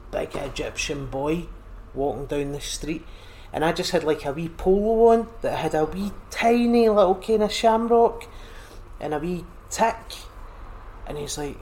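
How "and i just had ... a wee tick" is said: the word "wee" bouncing up high and loud as the story takes off; lifted, louder, as the excitement of the story grows; excited, higher and louder. Real, not acted. Excited story about Egypt.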